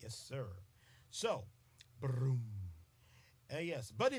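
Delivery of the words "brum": low "brum"; imitated drum sound. Shown as a demonstration. Host demonstrating mallets, imitated drum sound. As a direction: mimic a low drum hit. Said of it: "when you go".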